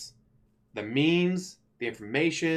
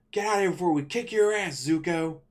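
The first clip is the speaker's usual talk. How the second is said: Katara threatening; 5 semitones higher than usual. Retold or imitated. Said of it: "Imagine Katara".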